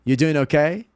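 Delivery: casual greeting, lifted pitch; upbeat casual check. Shown as a demonstration. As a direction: ask it brightly, rising on "okay". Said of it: "Ela pode ser assim também".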